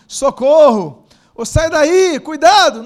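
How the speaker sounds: loud, high cries for help and warning; emergency yell. Retold or imitated. Preacher acts out a cry for help, yelling loudly. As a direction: shout like someone in danger. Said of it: "um grito de alguém falando assim".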